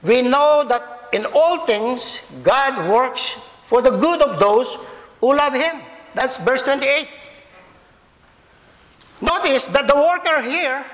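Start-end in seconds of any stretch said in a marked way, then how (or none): 0.0-5.8 "works" drawn out with weight; slow, deliberate reading leaning on "works"; stress on works. Shown as a demonstration. Preacher reading the verse to children and adults, stress on "works". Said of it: "place the emphasis on the word w-, works".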